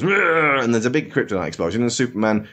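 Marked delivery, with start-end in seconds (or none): 0.0-0.6 a short growl from Doomsday; rolled mock snarl; monster growl. Doomsday's roar as he is hit, mock growl. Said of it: "who, like, goes".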